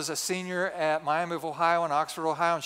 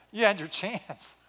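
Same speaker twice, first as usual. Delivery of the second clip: laughing; 3 dB quieter than usual. Real, not acted. Teasing his wife, laughing.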